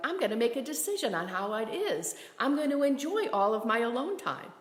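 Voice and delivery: a touch of self-cheering pep; empowered resolve. Acted. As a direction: declare it with lively determination. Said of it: "into feeling empowered, like".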